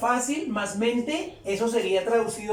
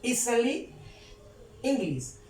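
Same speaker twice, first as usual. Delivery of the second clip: spaced-out English dictation; word-by-word model; slower than usual. Shown as a demonstration. Teacher reading an English example to listeners, word by word. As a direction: say it word by word with long pauses.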